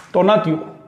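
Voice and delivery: "tonatio" said slowly and clearly; model word. Shown as a demonstration. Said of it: "Por ejemplo". (tonatio pronunciado despacio como modelo)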